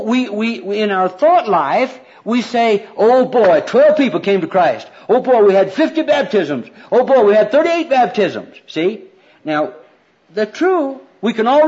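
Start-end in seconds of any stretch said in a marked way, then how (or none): 3.0-8.6 loud, higher mock-excited cheer; mock rejoicing. Preacher voicing thrilled church members counting converts, mock rejoicing. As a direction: crow over the numbers in imitation.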